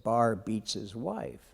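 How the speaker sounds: soft, slow whispered jeer; whispered taunt. Retold or imitated. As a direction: hiss the taunt under your breath, slowly. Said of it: "and he whispered it".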